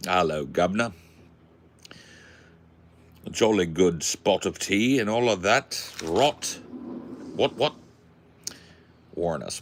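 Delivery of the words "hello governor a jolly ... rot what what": hammed-up British stereotype greeting; mock British accent. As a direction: play a cartoon Brit. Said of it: "We don't talk like that?".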